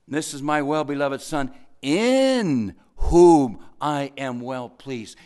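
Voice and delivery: loud, slowed, drawn-out proclamation; God's proud declaration. Acted. Preacher voicing God proclaiming his beloved son, loud and slow. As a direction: boom it out slowly like a proud father. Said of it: "But listen, it says".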